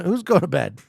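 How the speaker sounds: ordinary talk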